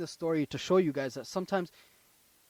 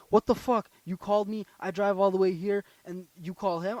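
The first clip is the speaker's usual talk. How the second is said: retold angry yelling; 2 semitones higher than usual. Retelling a tow truck driver yelling at him, mock angry yell. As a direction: imitate an irate driver, easing off after the first burst. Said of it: "He's yelling".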